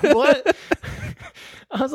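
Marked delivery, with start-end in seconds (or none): 0.0-0.6 the medic's jaw-dropped what to the patient; stunned disbelief. Retold or imitated. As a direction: let it fly out in total shock.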